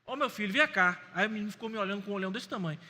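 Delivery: put-on a firm adult warning a boy at church; stern warning to a boy. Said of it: "Na terceira eu levantei".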